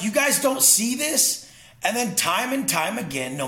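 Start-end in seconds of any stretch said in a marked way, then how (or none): 0.0-1.5 higher and slowed down, baffled; stunned, disbelieving question; incredulous. Retold or imitated. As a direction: ask it as if they're blind to it. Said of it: "I'm like".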